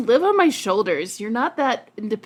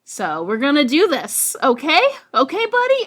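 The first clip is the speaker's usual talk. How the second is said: coaxing; 5 semitones higher, 4 dB louder than usual. Acted. Coaxing the cat.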